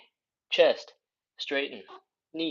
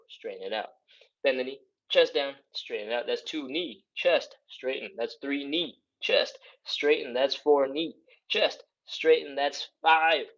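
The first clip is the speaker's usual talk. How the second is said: quick, punchy exercise cues; talking fast. Real, not acted. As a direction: rattle off the moves in rapid succession. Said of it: "I know I'm talking fast".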